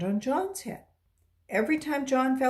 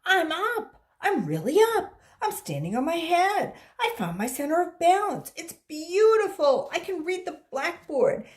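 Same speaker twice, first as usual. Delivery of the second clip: much higher and louder, bursting with joy; thrilled kid; 7 semitones higher, 7 dB louder than usual. Acted. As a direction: squeal it like a kid who finally did it. Child thrilled at standing on head.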